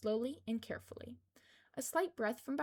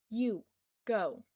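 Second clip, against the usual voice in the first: quick order; 7 dB louder than usual. A narrator's reading. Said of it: "she said quickly".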